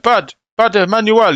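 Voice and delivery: high pleading voice; pleading whine. Retold or imitated. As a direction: beg with the full name. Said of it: "He's like".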